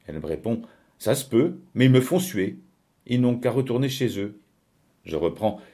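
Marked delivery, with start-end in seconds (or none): 1.0-4.4 higher, louder, fed-up retort; irritated dismissal. Acted. Lucienne refusing to take them back, irritated.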